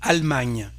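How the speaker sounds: "Allemagne" as "al-MANY", middle E dropped; silent E. Shown as a demonstration. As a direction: go straight from L to M in "Allemagne". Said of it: "Here we don't pronounce this E".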